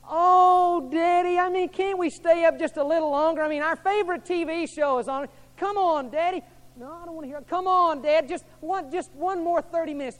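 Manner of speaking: put-on high, pleading child's whine; whining kids. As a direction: beg Daddy like a child for later bedtime. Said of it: "I tell my kids".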